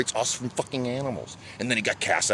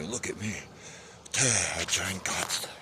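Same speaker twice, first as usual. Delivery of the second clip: mock smugness; 3 semitones lower, 8 dB quieter than usual. Mimics boastful ego-tripping believers.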